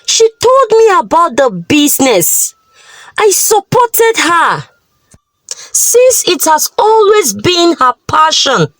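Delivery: gentle tearful plea; pleading wife. Acted. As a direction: beg your husband for forgiveness. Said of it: "pleaded with her husband".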